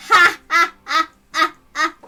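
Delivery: slow, loud drawn-out ha ha ha; villain laugh. Acted. Schemer gloating over her rivals, slow villain laugh. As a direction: savour the evil triumph.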